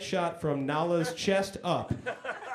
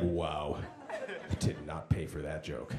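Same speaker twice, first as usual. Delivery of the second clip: mock heckler; 12 semitones lower, 8 dB quieter, slower than usual. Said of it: "he's like".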